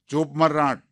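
mock angry old husband hissing ચૂપ મર; angry hush. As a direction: cut her off with a harsh command. Husband silences wife angrily.

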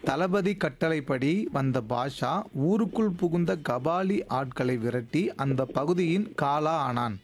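slow, measured game-host reading; puzzle sentence read-out. Acted. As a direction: read it out slowly, phrase by phrase. Repeats the puzzle for next caller. (புதிர் வாக்கியத்தை நிதானமாக வாசித்தல்)

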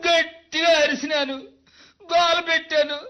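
choked, crying account of the fire; tearful plea. Acted. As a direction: tell it through tears. Witness recounting fire, tearful.

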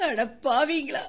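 low sobbing curse; tearful cry. Acted. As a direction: weep out the words. Widow cries at betrayal.

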